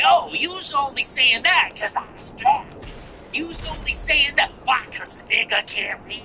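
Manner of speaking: caricatured, high-pitched aggrieved voice; playing the victim. Mimicking her playing the race card, high mock-aggrieved voice. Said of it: "play the race card and say".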